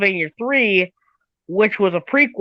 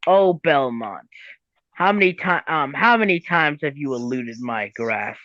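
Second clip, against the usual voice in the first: slow menacing Death; 6 semitones lower than usual. Retold or imitated. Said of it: "was like".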